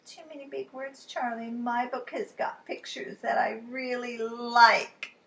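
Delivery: put-on a small girl unimpressed; lightly voiced Lola. Lola turning down the book to Charlie, lightly voiced.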